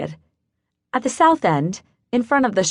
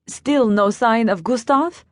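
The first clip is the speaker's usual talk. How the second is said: put-on light German accent, slow and careful; an older German woman asking, lightly accented; 4 semitones higher than usual. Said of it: "she spoke with a German accent".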